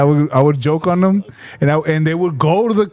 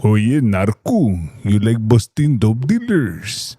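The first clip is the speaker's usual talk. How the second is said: Arnold impression; 6 semitones lower than usual. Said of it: "That's Arnold".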